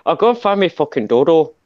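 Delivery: sweary mock-Irish accent. Shown as a demonstration. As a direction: play up an Irish brogue. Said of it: "Irish should talk like this".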